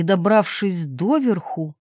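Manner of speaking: ordinary delivery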